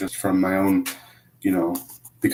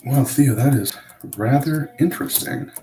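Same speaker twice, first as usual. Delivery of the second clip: dry sarcastic remark; 6 semitones higher than usual. Real, not acted. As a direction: say it with mock interest. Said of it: "I'm being sarcastic".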